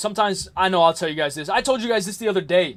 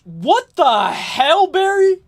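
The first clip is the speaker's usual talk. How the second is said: shocked; 9 semitones higher, 6 dB louder, much slower than usual. Real, not acted. Reading a shocking chat message.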